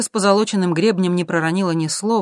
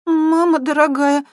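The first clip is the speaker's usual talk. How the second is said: high, slow mock-scared squeak; 12 semitones higher, 7 dB louder, slower than usual. A narrator's reading. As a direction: yelp in alarm. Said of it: "тихонько пискнула Светка". (испуганно пискнуть)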